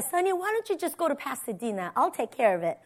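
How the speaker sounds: soft, quick offer to handle things; casual reassurance. Retold or imitated. Husband offering to handle the move, casual reassurance. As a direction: toss it off softly and easily.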